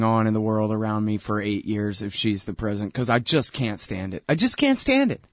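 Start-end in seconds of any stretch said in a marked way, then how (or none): 4.3-5.2 high strained whine of frustration; exasperated whine. Real, not acted. Pundit venting about her voice, high exasperated whine. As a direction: whine it like you can't take it.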